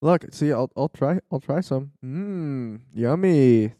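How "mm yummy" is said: coaxing daddy mmm yummy; fake-enjoy to coax a child; appreciative mmm. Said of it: "look at Daddy".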